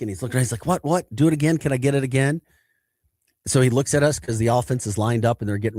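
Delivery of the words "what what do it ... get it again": lightly voiced, higher-pitched frantic pleading; mock-panicked begging for the signal, pitched up; frantic teammate. Linebacker begging the sideline to signal again, frantic. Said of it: "kinda frantic".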